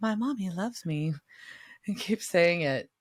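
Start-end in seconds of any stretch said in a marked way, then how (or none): 0.0-1.1 put-on eerie, creepy small boy's voice. Retelling a scene where brothers in an attic hear a boy, in a creepy little boy voice. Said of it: "suddenly you hear this creepy, creepy... little boy's voice goes".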